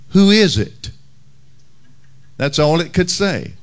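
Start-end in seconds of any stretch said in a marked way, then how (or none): 0.1-0.9 squawked parrot call. Retold or imitated. Pastor telling a joke, as the parrot squawking. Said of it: "could only say one thing".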